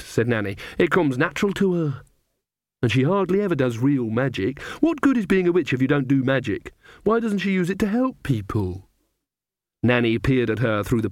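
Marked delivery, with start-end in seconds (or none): 0.8-8.9 put-on a touch of a fed-up young witch; mildly snappish, sulky young woman; Magrat. Magrat snapping at Nanny, lightly voiced fed-up.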